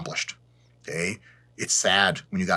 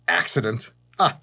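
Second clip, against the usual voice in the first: mock sinister echo. Vlogger mocks the Illuminati, sinister echo. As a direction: repeat it back like a secret society voice. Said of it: "The Illuminati have no such term".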